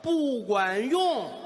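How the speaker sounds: very slow, high whining complaint; drawn-out whine. Retold or imitated. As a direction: stretch it out like a sulky patient. Gao Feng complaining to doctor. (拖长高声哭诉：不管用)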